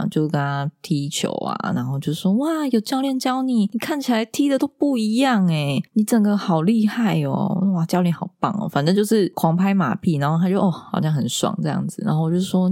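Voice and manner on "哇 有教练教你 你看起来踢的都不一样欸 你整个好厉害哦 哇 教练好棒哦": put-on higher, over-the-top flattery to a child; mother hyping up her son after his first football class, higher and gushing; gushing praise. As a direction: pile on the compliments sweetly. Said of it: "狂吹彩虹屁".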